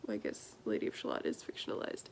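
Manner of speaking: low whispered aside, fast. Real, not acted. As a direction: mutter it to yourself quickly. Aside correcting herself.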